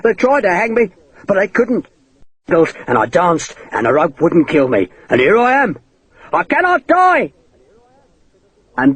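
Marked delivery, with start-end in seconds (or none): 0.0-7.3 much higher, desperate crazed cries; frantic pleading. Acted. Hakeswill pushed back by the sword tip, frantic high pleading. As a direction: shriek it like a madman losing control.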